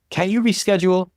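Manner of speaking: understated pleading question. A narrator's reading. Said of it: "I pleaded".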